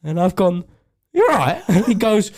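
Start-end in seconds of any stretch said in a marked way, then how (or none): 1.1-1.6 concerned. Retold or imitated. Checking on fallen dad.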